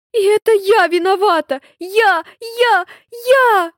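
put-on girl cries out her guilt; distraught self-blame. A narrator's reading. Frightened girl blames herself for the fall, anguished.

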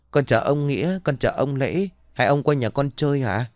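put-on a small boy politely greeting his elders; young boy greeting. Young boy greets two old men.

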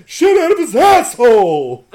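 high, slow, shouted dopey impression; dumbass voice. Podcaster repeating the gang member's line, loud high dumbass voice. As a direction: holler it like a drawn-out dimwit. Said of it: "just the dumbass voice that he has".

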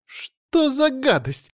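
wife shrieks at the drooling rottweiler; shriek of disgust. A narrator's reading. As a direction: recoil and shriek at the dog. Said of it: "закричала Эльза".

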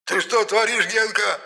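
very high, eerie squeal; shrieking doll spirit. A narrator's reading. Spirit in the doll squeals at Genka. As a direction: squeal it in alarm. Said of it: "заверещал Епифан".

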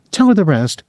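mild heated insistence; hotly. A narrator's reading. Julie pushing Rudolph to confess, mildly heated. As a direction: push him, a touch of temper. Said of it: "Julie said hotly".

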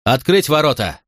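high firm command; commanding order. A narrator's reading. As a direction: bark the order to open the gate. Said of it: "набрал в грудь воздуха и приказал".

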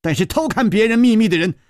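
stern fierce voice. Acted. Gong Nanyan fiercely confessing and threatening Chu Liuxiang. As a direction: snap it out as a threat. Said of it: "宫南雁忽然厉声说".

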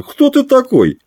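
put-on high, slurred drunk sailor. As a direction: bark it like a tipsy skipper. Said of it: "крикнул шкипер пьяным голосом".

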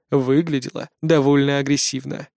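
ordinary delivery

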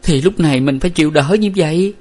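high, plaintive moan.

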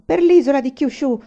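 high, loud urgent cry; shouted. A narrator's reading. Aiwan answering his friend about the journey, shouted. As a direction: call the destination out forcefully. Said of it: "gridò Aiwan".

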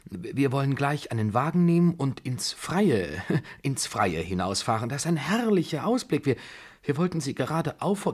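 high, flustered pleading with a nervous laugh; agitated high-pitched coaxing; trembling voice. A narrator's reading. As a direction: gush desperately, stumbling over words. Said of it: "seine Stimme zitterte und versagte".

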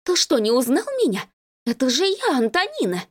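a hint of an offended girlfriend; offended woman. A narrator's reading. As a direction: insist she be recognized. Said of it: "взвизгнула она".

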